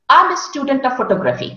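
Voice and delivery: "I'm a student of photography" rattled off quickly; no syllable stress. Shown as a demonstration. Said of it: "you made mistake with intonation".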